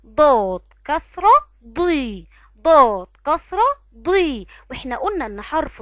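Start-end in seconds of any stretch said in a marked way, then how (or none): 0.1-4.5 ضاد كسرة ضي slow and loud, stretched ضي; slow syllable drill. Shown as a demonstration. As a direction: call out ضاد كسرة ضي slowly for the class. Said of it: "لما ننطق الحرف بالكسرة بننطقه ازاي". (تهجئة بطيئة وعالية لـ ضي)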